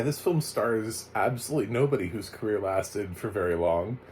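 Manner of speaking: ordinary talk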